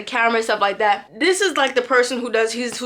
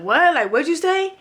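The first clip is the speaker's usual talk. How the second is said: confrontational what; 7 semitones higher than usual. Retold or imitated. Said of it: "I'm like".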